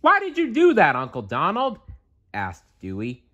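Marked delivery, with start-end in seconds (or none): 0.0-1.8 put-on much higher, childlike duck nephew asking; high cartoon nephew, puzzled; young nephew voice. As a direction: pitch up high as a puzzled kid. Narrator voicing nephew.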